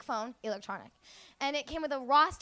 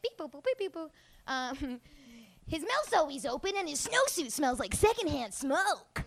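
toy phone voice; 4 dB quieter than usual. Retold or imitated. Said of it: "the real clues would have been like".

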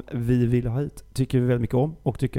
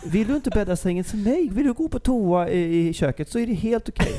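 lightly mocking a laid-back parent, higher and laughing; 4 semitones higher than usual. Teasing friend imitating her as a permissive parent, light laughing mock. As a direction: hipster parent letting the kids do anything, half-sung. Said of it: "när du uppfostrar dina barn så är det så här".

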